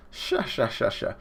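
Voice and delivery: stylized "sha sha" chuckle; mock signature cartoon laugh; villain laugh. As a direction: laugh on repeated "sha" syllables.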